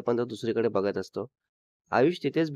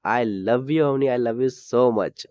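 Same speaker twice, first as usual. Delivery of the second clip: shouted declaration; much slower than usual. Acted. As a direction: stretch it out and call it across the room. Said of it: "जोरात ओरडतो".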